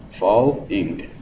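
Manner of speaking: "Falling" stressed first, pitch dropping; FAL-ling, heavy then light. Shown as a demonstration. Teacher shows trochaic fall on one word. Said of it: "the pattern is falling".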